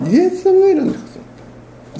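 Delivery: exalted emphasis. Real, not acted. Preacher exalts Jesus' choice.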